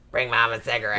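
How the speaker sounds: lightly voiced old broad; a hint of a faded old diva; Baby Jane voice. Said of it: "Whatever happened to Baby Jane" kind of voice".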